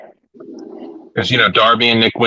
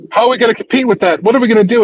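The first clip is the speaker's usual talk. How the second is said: high, hurried hammed-up fretting; exaggerated helpless questioning; mock panic; 13 semitones higher, much faster than usual. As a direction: imitate someone losing hope, fast and high. Retelling MJF panicking at competition.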